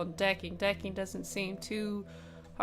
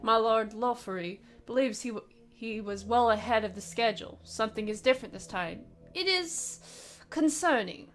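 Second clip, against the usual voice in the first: a hint of a stern German officer; lightly voiced, grave warning, not much accent; attempted German voice. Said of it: "I wish I could do a German accent".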